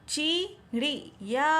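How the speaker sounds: चिड़िया read slowly with a rising end; slow option reading. Shown as a demonstration. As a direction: stretch चिड़िया out as a choice to compare. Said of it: "तो इसमें से कौन सा सही होगा?".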